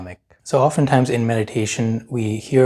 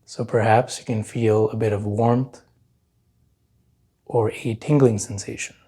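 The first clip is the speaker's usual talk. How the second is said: unhurried meditation guide, long pauses between phrases; guided meditation. Real, not acted. Meditation teacher leading listeners to notice their hands, calm guiding voice. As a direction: guide them calmly, leaving long silences to feel.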